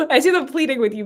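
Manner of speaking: high laugh spilling into the words. Real, not acted. Psychic telling the caller what she sees, laughing. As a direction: giggle through it.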